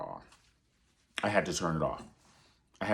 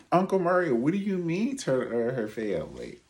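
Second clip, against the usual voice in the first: higher, louder pleading question; mock eager fan; 8 semitones higher, 6 dB louder than usual. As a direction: call out like a kid waving a hand. Mock audience member asks again.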